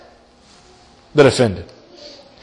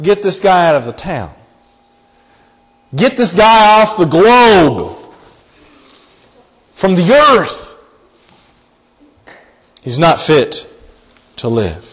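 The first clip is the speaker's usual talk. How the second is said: mob demanding death. Acted. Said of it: "And they say, listen".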